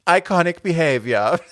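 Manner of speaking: called out high from the back. Retold or imitated. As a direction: shout it in from the background. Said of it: "ruft nur so rein".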